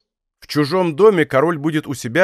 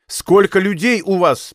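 slower, insistent, higher demand; impatient repeat; 5 semitones higher, 3 dB louder, slower than usual. A narrator's reading. King to captain, insisting with a stamp, impatient. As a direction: press the question, foot stamping. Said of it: "повторил король, топнув ногой".

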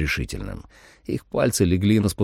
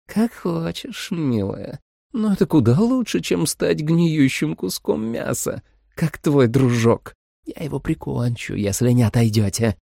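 sweet vampire mother; 7 semitones higher than usual. A narrator's reading. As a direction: lull the girl with fake tenderness.

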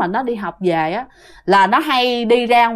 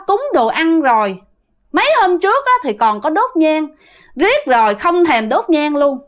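mildly cross, raised-pitch telling-off; retold scolding; 5 semitones higher than usual. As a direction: scold them in a higher voice, storyteller's restraint. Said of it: "mẹ lại chửi ba".

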